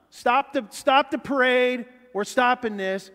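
loud, high, emphatic order; acted authoritative call; commanding halt. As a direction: bring a whole parade to a stop. Acting Jesus halting the procession.

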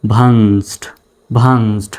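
"ভান্সড" as one syllable, vanst; joined pronunciation. Shown as a demonstration. Teacher modelling six letters said at once, "ভান্সড" as one joined syllable. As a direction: run the letters of "ভান্সড" together, closing on a t-like stop. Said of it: "ছয়টা letter একসাথে উচ্চারণ করতে হচ্ছে".

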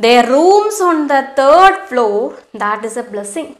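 slow, deliberate reading of the story. A narrator's reading. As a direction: read each phrase slowly for the class. Teacher reads story aloud. (പതുക്കെയുള്ള കഥ വായന)

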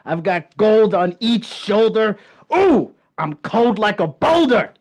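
lightly played boastful champ; cocky champion. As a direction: brag like a cocky wrestler. Skit character Hollywood Hot Dude.

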